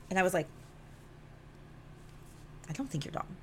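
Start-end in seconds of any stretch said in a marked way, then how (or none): 2.7-3.3 much softer, careful and slightly hesitant; gentle reassurance. Retold or imitated. Answering his hurt to reassure him, gentle reassurance. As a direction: drop to a small, soft voice.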